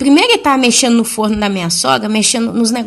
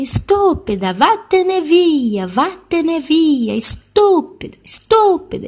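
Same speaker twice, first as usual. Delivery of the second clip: higher, slow mimicked toddler shouting; angry boy's shout, much higher; child yelling; 7 semitones higher, slower than usual. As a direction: raise the voice like a small boy acting big. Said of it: "e gritando, e aumentando a voz".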